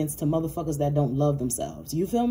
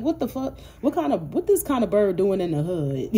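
shocked disbelief; 3 semitones higher than usual. Retold or imitated. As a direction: act stunned at a bird in the hood. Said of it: "You like".

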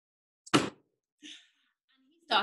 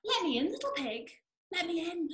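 higher, pleading big bad wolf; 5 semitones higher, 5 dB quieter, faster than usual. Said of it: "And the wolf said".

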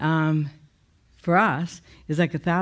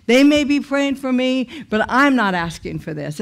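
raised, loud pleading protest; threatening God; 5 semitones higher, 4 dB louder than usual. Retold or imitated. Arguing with God inside, high and loud. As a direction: push back hard at God, voice lifted high. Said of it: "I'm threatening God almost".

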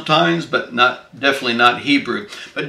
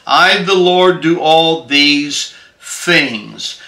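scripture reading; 2 semitones higher than usual. Acted. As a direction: proclaim the verses deliberately, stretching the key words. Reads scripture aloud to listeners.

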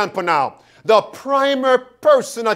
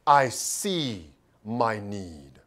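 very soft, low, slow prayer; hushed, humble admission to God; humble confession; 11 semitones lower, 9 dB quieter, slower than usual. Acted. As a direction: confess it slowly, barely voiced.

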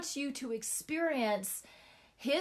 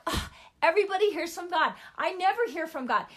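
mock whiny complaint, higher and quick; whining; 5 semitones higher, 4 dB louder, faster than usual. Recalling her younger self's complaining, mock whine. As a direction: whine like a frustrated young believer. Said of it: "I was whining and complaining".

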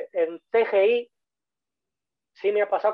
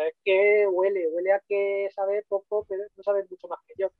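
mock skeptical student; 4 semitones higher than usual. Imitating a student judging a teacher.

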